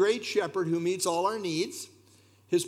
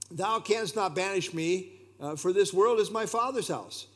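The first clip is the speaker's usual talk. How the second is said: raised, bold defiance; defiant saint; 4 semitones higher than usual. Retold or imitated. Chrysostom answers the Roman emperor, boldly defiant. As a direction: stand firm before the emperor. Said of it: "Chrysostom replied".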